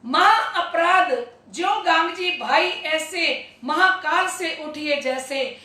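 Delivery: slow, measured scripture recital; verse recitation. Real, not acted. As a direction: intone the verse, drawing out the words. Reciting scripture verse between explanations.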